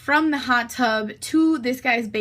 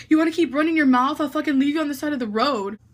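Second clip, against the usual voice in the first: quick, raised retold threat; mock threat; 4 semitones higher, 3 dB louder, faster than usual. Driver threatens to abandon her roadside, mock anger. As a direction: imitate an angry driver snapping a warning.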